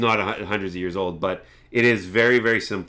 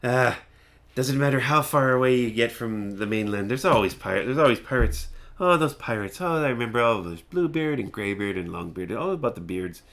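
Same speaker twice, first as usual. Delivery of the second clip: rambling old hermit, lightly voiced; mildly grunted, muttering reminiscence; grunting ramble. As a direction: grumble away to yourself about it. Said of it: "he starts grunting off about".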